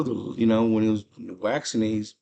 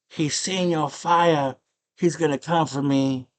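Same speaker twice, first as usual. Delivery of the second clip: high, drawn-out princess wail; mock screaming princess; 5 semitones higher, slower than usual. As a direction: wail it slowly as a hammed-up panicked princess. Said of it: "The princess is screaming".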